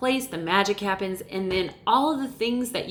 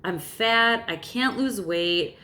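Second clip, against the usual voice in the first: mopey self-pity. Retold or imitated. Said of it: "walking around thinking, "Woe is me".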